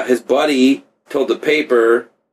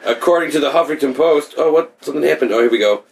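mock newscaster reading a story; news anchor voice; 3 semitones higher than usual. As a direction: read the headline like a TV anchor. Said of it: "news anchor voice".

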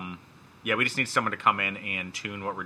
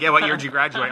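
acted small talk; 5 semitones higher, 6 dB louder than usual. Acting out small talk, louder.

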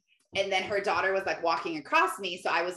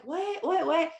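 put-on clueless kids; 9 semitones higher than usual. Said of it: "And they, like, are like".

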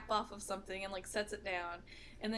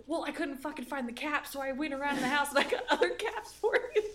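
higher, laughing through mom's excuse; 5 semitones higher, 5 dB louder than usual. Retold or imitated. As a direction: voice mom cracking up while explaining. Mom proudly brings wrong caps.

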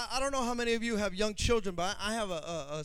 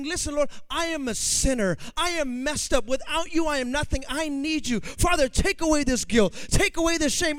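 earnest confession; 3 semitones higher than usual. Acted. Voiced confession prayer.

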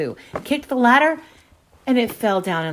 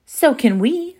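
put-on eager children; 9 semitones higher, 4 dB louder than usual. A narrator's reading. Children answering together eagerly.

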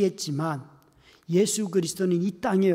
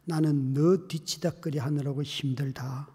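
soft, low and tender; gentle voice of God; 5 semitones lower, 5 dB quieter than usual. Retold or imitated. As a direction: speak gently to a tired son. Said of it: "하나님이 제 마음속으로 이런 말씀을". (하나님이 지친 아들에게 건네는 낮고 부드러운 목소리)

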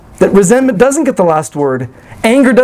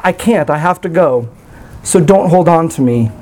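tender, pleading; 2 semitones lower than usual. Shown as a demonstration. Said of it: "with a different affect".

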